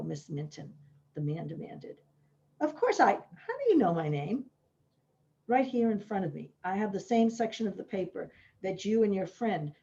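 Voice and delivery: author's reading voice; story reading. Acted. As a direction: reads her own book to the listeners. Author reads novel passage aloud.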